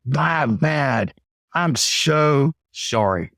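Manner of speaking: slow, earnest "I'm so sorry"; mean every word of it; sincere apology. Shown as a demonstration. Coach showing reps a sincere apology, slow and earnest. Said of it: "And say it sincerely".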